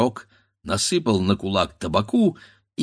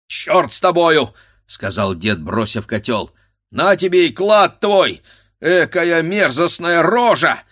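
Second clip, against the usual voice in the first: louder, higher angry shout; angry outburst; 8 semitones higher, 7 dB louder than usual. A narrator's reading. Grandfather cursing the monstrous face, shouting. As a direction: fling the curse in disgust.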